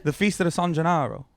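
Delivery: San Gennaro said the Italian way, Gennaro rolled; Italian-style pronunciation. Shown as a demonstration. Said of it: "How are you saying it?".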